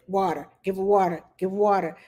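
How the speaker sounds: mild mock inner voice; inner voice idea. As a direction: hear the idea land. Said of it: "my head said".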